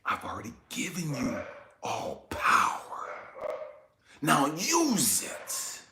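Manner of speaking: measured and low-key, stretching the last words; voice of God. Retold or imitated. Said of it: "And the voice comes back".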